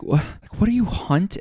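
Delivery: baffled, mocking disbelief; incredulous. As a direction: pitch shooting way up on "what do you hunt". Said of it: "And I'm just like".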